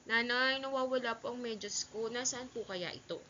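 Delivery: gentle, courteous question; calm, polite. Shown as a demonstration. Child asking mother about lost socks, calm and respectful. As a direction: ask mildly, without any anger. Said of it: "Dapat ito ay mahinahon".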